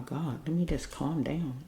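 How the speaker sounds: hushed, breathy whisper, steadying herself; whispering to calm down. Real, not acted. Card reader fighting tears before her viewers, real hushed whisper. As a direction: whisper it as if holding back tears. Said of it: "I feel like I'm gonna cry".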